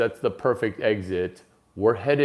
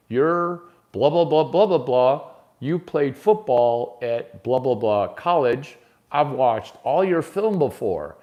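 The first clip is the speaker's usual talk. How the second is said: gushing flattery; 3 semitones higher, 3 dB louder than usual. Retold or imitated. Acting Brady's flattery, louder.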